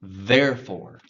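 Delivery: therefore with a clear TH; model pronunciation. Shown as a demonstration. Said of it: "let's get that T H practice".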